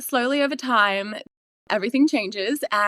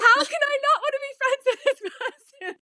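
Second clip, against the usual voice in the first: high, quick disbelief at herself; incredulous self-question; faster than usual. Retold or imitated. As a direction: ask it as if appalled at yourself. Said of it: "I was like".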